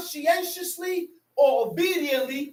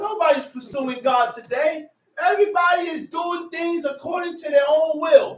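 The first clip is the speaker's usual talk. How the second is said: raised, emphatic pulpit delivery; impassioned preaching; 4 semitones higher than usual. Real, not acted. Preacher lamenting that nobody pursues God, impassioned. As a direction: preach it out insistently.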